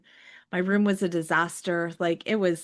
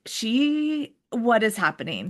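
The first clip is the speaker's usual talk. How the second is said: panicked disbelief; 4 semitones higher than usual. Retold or imitated. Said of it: "I'm like".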